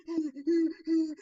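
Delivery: high, loud laugh, acted out; imitated laugh. Co-host retells how someone reacted, mock laughing.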